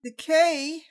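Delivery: slow, formal news read; newscaster voice. Acted. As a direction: read "Decay by Ingravidos Studios" like a news anchor. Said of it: "let's read like a newscaster".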